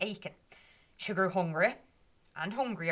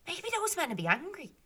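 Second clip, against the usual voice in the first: worried thought; 6 semitones higher than usual. Acted. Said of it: "and she thought".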